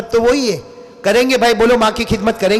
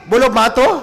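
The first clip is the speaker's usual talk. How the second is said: ordinary talk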